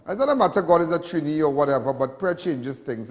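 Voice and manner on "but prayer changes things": slow, softer, lower, heartfelt; sincere slow reminder. Real, not acted. Host reminding viewers to pray after the floods, slow sincere voice. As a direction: let it land gently and with conviction.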